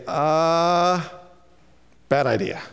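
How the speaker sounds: a friend dampening your hopes; discouraging friend. Retold or imitated. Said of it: "they say".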